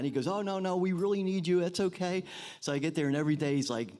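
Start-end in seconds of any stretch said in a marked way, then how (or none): 0.3-2.2 higher-pitched imitation of an insistent plea; reassuring insistence. Camp director talking a reluctant counselor into coming, reassuring insistence. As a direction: wave off the worry in a lifted voice.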